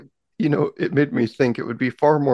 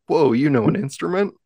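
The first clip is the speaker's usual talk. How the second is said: mildly amazed, higher voice; mock surprise; 4 semitones higher than usual. Onlookers learning that someone plays an instrument, mock surprise. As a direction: act out a startled onlooker, lightly. Imagined onlookers shocked at a player.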